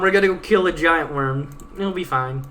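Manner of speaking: ordinary delivery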